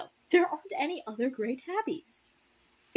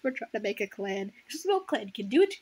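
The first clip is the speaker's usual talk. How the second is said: mock clan cats. Reader mocking the clan cats' plan, hammed-up. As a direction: play the clueless cats mocking them. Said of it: "They're like".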